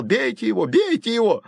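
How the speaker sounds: put-on high, urgent cry of a scared boy; boy shouting at his brothers mid-fight; frightened shouting. A narrator's reading. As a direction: egg them on in a high yell despite fear. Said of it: "но кричал".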